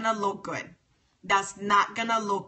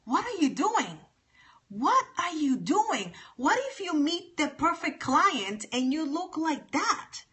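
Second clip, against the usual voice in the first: pitched-up incredulous scolding; mock disapproving quote; 3 semitones higher than usual. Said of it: "And I'm like".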